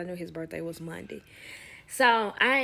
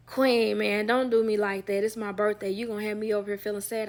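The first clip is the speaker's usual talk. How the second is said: pleading whine; 6 dB louder than usual. Retold or imitated. Voicing him pleading loudly.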